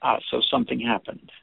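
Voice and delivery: "so something happened" said softly as a statement; "so something happened" with the voice settling down; gentle statement. Shown as a demonstration. Teacher demos the gentle probe, calm and soft. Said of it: "Can you feel the energetic difference between the two?".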